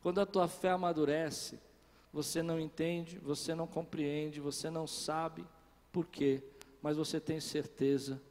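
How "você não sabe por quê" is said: ordinary talk, nothing marked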